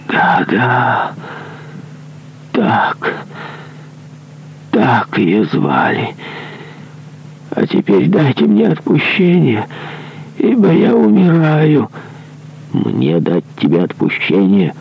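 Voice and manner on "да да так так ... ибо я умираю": high, crying plea; desperate dying plea. Acted. Dying executioner crying out to the monk for absolution, high. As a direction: cry out for absolution.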